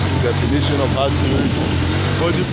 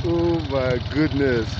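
awed; slower than usual. Real, not acted. Awed by mountain view.

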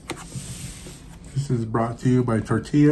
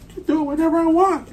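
playful defiance; faster than usual. Real, not acted. Playful comeback at wife.

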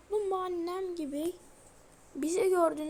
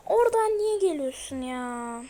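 louder, exasperated cry; exasperated outburst; 6 dB louder than usual. Real, not acted. Gamer yelling at Granny, exasperated. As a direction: complain loudly at the granny.

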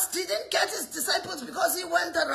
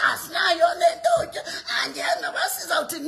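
mock moaning.

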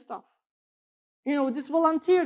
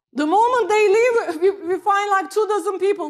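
laughing; 4 semitones higher, 5 dB louder than usual. Real, not acted. Pastor laughs at quick rehiring.

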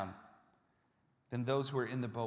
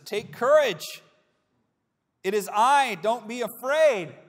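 Jesus calming them; 8 semitones higher, 13 dB louder than usual. Acted. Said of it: "Jesus looks at them and he says".

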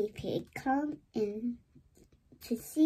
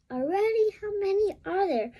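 grumbling; 8 semitones higher, 4 dB louder, faster than usual. Acted. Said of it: "grumbles Daddy Pig".

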